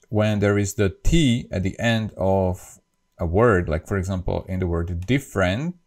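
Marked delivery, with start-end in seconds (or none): 5.1-5.8 different said as "differen"; unpronounced final T. Shown as a demonstration. Teacher shows English ending, different without released T. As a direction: leave the T off the end of different. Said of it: "the last T is not".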